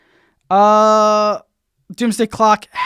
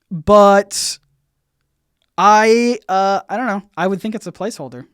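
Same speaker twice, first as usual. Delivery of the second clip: normal talking voice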